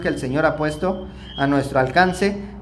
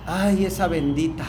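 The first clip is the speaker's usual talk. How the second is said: sweet blessing. Shown as a demonstration. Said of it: "cómo empezaba yo a decir".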